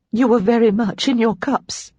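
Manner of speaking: suppressed giggle. A narrator's reading. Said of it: "struggling to sound dignified".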